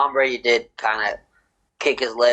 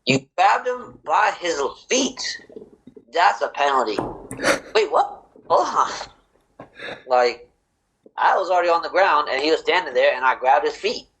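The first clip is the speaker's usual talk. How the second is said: mock ref and defender; 3 semitones higher than usual. Ref versus defender argument.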